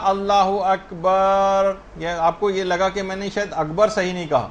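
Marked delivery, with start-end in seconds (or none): 0.0-1.7 demonstrated takbir. Shown as a demonstration. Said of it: "مثلاً آپ نے کہا".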